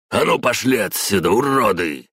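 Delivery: high, loud, rough yell; hoarse shout. A narrator's reading. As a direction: drive them off the porch with a yell. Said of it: "хрипло выкрикнул он". (хриплый крик)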